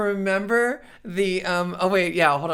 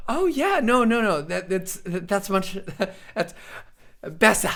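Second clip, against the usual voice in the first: delighted listener; 3 semitones higher than usual. Retold or imitated. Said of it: "suddenly people are like".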